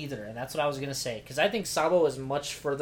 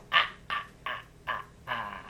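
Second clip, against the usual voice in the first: Count laugh; 3 semitones lower than usual. Acted. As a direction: cackle like a vampire counting. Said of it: "your count laugh from Sesame Street".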